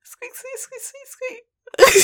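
high, tiny squeaks; mouse squeak. Pretend. Mocking the character slipping in, tiny high mouse squeaks.

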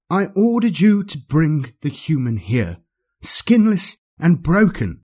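cold, commanding dark lord; menacing overlord. Acted. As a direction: speak down to a doomed servant. Archon condemns the torturer.

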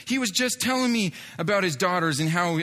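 high-pitched mock astonishment; imitated emotional amazement. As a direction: mimic a tearful friend confirming it in disbelief. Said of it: "his friend is just dumping tears".

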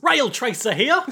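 high, loud call through a laugh; laughing mock creature call; cheery monster call. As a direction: shout it out like a jolly monster. Voices the rail tracer, laughing.

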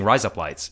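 "Rise up, lights" run together like "razor blades"; "Rise up, lights" passing for Australian "razor blades"; American words sounding Australian. Shown as a demonstration. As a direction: say "Rise up, lights" in plain American, as one phrase. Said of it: "I'm not trying to put on an Australian accent".

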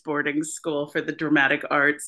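put-on a light touch of posh British accent; lightly put-on posh British drama-school accent. Mocking actors trained in drama school, light posh British accent. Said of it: "type of accent".

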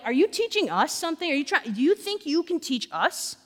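mildly indignant mock questioning; upset indignation. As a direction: retort as if mildly insulted. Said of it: "they are again upset".

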